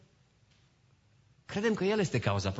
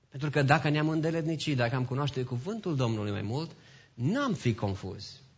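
normal talking voice

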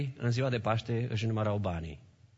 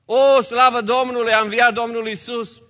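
high, loud cry of praise; mock-jubilant outburst; acted rejoicing; 9 semitones higher, 9 dB louder than usual. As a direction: exclaim it like women hearing wondrous news. Acts out the women rejoicing.

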